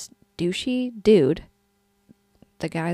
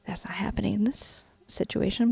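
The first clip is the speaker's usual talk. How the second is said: whispering; 7 dB quieter than usual. Real, not acted. Aside whispered during the story.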